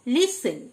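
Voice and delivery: "লিসেন" with S and no T; silent T. Shown as a demonstration. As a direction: model "লিসেন", leaving out the T after S. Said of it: "টি silent". ("লিসেন", টি উচ্চারণ না করে)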